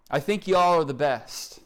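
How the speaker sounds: lightly put-on Oklahoma accent. Shown as a demonstration. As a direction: say it like an Oklahoman, just a touch. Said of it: "Forgot to throw in my Oklahoma accent".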